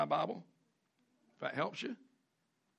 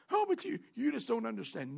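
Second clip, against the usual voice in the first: mock whine; 4 semitones higher than usual. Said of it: "and you're going".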